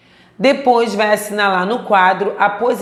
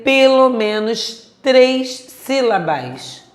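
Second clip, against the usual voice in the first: pelo menos três sílabas high and slow, word by word; slow emphatic; 4 semitones higher, slower than usual. Shown as a demonstration. Teacher driving home a rule not to forget, slow and emphatic. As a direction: stretch três and sílabas, setting each apart.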